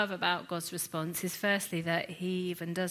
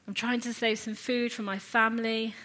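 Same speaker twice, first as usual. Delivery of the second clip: higher-pitched, mildly put-upon sarcasm; a little sarcastic; 4 semitones higher, 4 dB louder than usual. Acted. Preacher as Gideon trying to save food, a little sarcastic. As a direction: complain with a touch of sarcasm. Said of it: "being a little bit sarcastic".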